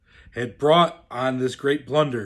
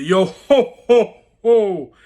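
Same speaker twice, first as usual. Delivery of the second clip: a louder, hearty pirate chuckle in the yo ho ho ho; jolly pirate yo-ho; 4 semitones higher, 6 dB louder, slower than usual. A narrator's reading. Narrator voicing Greybeard's pirate cheer for the children, louder and hearty. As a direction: belt it out like a merry pirate.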